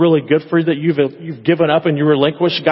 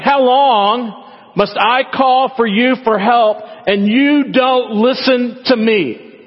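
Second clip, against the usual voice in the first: high, slow, drawn-out whine at God; sassy complaint; 7 semitones higher, much slower than usual. Retold or imitated. Habakkuk whining at God, high and slow. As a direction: stretch every word like a sulking child. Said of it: "That's pretty sassy words".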